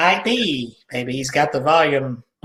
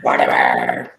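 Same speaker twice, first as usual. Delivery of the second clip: very deep voice. Acted. Deep dummy voice naming.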